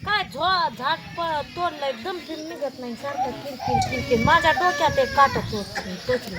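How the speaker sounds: exasperated complaint. Real, not acted. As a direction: vent a real grievance loudly. Irritated complaint about chores.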